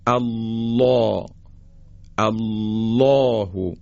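الله with thick dark lam, backed "aw" vowel held long; very slow recited الله, full rounded ل; heavy taghliz. Shown as a demonstration. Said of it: "بایستی درشت و با غلظت ادا کنیم".

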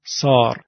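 سار with a long back "aa"; long dark "aa" in سار; long alef. Shown as a demonstration. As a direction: say سار with a tall, vertical mouth.

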